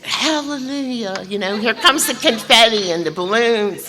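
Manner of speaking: high, bright hallelujah cheer; imitating a gushing sponsor; mock celebration. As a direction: cheer it like a party.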